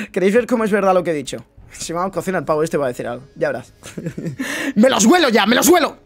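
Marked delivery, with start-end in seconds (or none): 4.7-6.0 gleeful. Real, not acted. Gleeful prediction to viewers.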